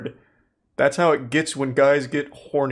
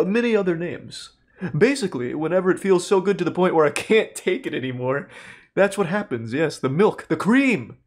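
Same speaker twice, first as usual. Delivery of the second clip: lecturing professor; 3 semitones higher than usual. Retold or imitated. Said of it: "like a whole lesson".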